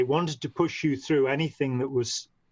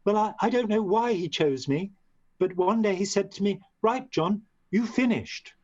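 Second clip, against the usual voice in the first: higher voice imitating a South African Durban accent; 7 semitones higher than usual. Retelling John McMaster's words in his Durban accent. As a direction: quote him in his Durban accent, pitched up. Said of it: "he did talk like that".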